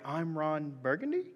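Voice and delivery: "I'm Ron Burgundy?" read with a rising question tune. Shown as a demonstration. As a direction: read it unsure, ending up. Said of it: "like there's a question mark".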